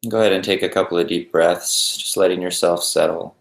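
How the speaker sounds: calm, even meditation guide with long pauses; unhurried, settled guided-meditation voice. Acted. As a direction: ease listeners into stillness, leaving space between phrases.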